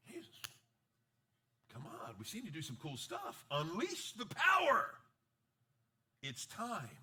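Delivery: mock rallying cry of the crowd; eager urging. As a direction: egg him on, then go big. Disciples urging Jesus to act.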